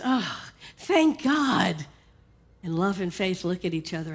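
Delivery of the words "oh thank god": slow, drawn-out relief; relieved exhale. Acted. Fear finds the fire exit, slow and relieved. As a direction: breathe it out slowly in relief. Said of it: "Fear exhales".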